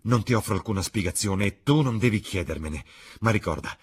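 urgent warning, easing into measured threat; earnest ultimatum. Acted. Dorian warns Basil off the screen, earnest ultimatum. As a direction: warn firmly, swearing you mean it.

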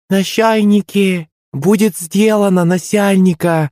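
high, slow, squeaky little creature voice; thin squeaky voice. Acted. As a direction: squeak it out like a comic sidekick. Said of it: "тоненьким голоском выдал звуколов". (тоненький писклявый голосок)

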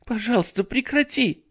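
put-on high begging child voice; pleading little boy. Ray begs his babysitter to stop, high pleading. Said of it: "взмолился Рэй".

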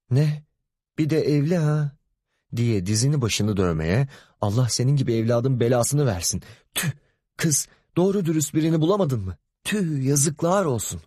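high, wailing curses; mother cursing her daughter's married lover. Acted. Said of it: "lanetler yağdırırken".

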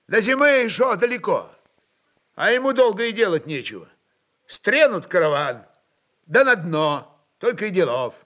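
a soldier stating grim facts; blunt officer. Acted. Streltsy chief interjects.

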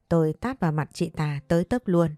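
ordinary delivery, nothing marked

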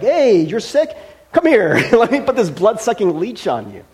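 hammed-up medicine man; pushy old-time doctor calling you over; mock eager healer. Old healer offering leeches.

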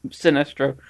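Sinestro said as si-NESS-troh; short I, weight on NES in Sinestro; correct pronunciation. Retold or imitated. Co-host citing the character himself, Sinestro as si-NESS-troh. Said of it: "The character himself says".

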